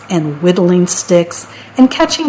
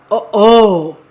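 a touch of storybook alarm; lightly acted uh-oh moment; dismayed troll; 4 dB louder than usual. A narrator's reading. Troll sees the big goat, mildly dismayed.

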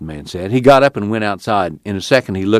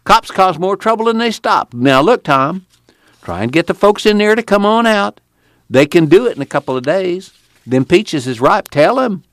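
raised, eager and insistent; excited urging; 11 semitones higher than usual. A narrator's reading. Casey urging Tom to bring the folks, excited. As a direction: keep the fire of the cry going. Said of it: "he cried".

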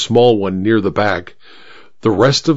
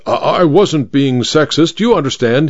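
stammered; 3 semitones higher than usual. Acted. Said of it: "he stammered".

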